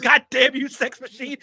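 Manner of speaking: high, loud, hammed-up yell; mock yell. Retelling his brother's favorite scene, in a hammed-up high yell. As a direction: bellow it like the movie character. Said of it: "He's like".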